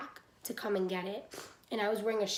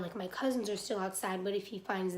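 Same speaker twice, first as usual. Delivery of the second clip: stuffy nose, congested voice; blocked nose. Real, not acted. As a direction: talk through a blocked nose. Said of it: "I'm, like, super stuffy".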